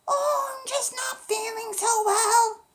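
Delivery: wolf groaning like a poorly grandma; slow put-on frail grandma voice; funny voice. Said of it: "a voice that sounded a little funny".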